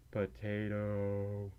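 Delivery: slow, low and soft, dragged out; retold first word. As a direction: drawl it out quietly like a first word. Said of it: "I said".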